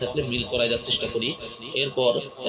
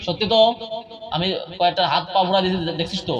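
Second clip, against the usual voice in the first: higher, louder threats; angry threatening; 6 semitones higher, 4 dB louder than usual. Acted. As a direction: demand the spirit never return. Exorcist threatening the jinn.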